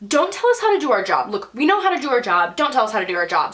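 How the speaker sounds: imitating irritated staff, mildly heated; mock telling-off. Imitating staff rebuking a girl with instructions, irritated. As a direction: scold defensively without really yelling. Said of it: "they yelled at me".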